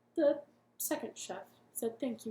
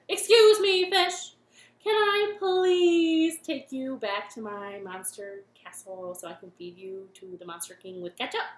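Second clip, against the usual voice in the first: loud, singsong monster chef ask; 2 semitones lower, 10 dB louder than usual. Acted. Monster chef politely asking the fish. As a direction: croon it as a pushy monster cook.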